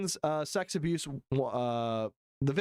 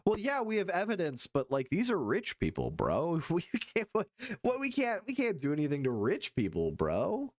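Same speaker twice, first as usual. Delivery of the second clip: lightly voiced dismissive official; a hint of a smug bro brushing it off; mock Justice Department; 4 semitones higher than usual. Streamer mocking the Justice Department, dismissive bro voice. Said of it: "Justice Department is saying".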